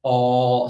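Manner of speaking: "aw" as a deep, rounded vowel; deep aw sound. Shown as a demonstration. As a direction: hold a deep, open "aw". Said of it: "with a very deep aw".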